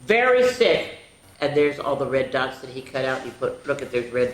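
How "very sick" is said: dramatic emphasis. A narrator's reading. Dramatic read aloud.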